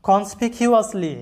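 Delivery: কনসপিকিউয়াসলি said slowly, each syllable spaced; slow model word. Shown as a demonstration. Teacher introducing a new word to students, slow. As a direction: draw out কনসপিকিউয়াসলি for learners. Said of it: "লক্ষ্য করো".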